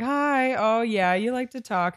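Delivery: high, sugary mock-sweet voice; sing-song condescending sweetness; mock sweet captors. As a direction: coo it like a patronising captor. Mocking the captors' sweet talk.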